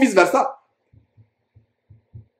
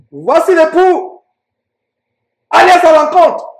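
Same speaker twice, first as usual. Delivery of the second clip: raised, stretched-out calling voice; crying out; 6 semitones higher than usual. Acted. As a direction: proclaim it like a herald at midnight. Preacher voices the midnight cry.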